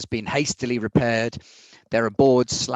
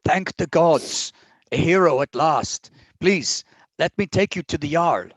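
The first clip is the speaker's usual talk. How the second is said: relieved guard; 4 semitones higher than usual. Acted.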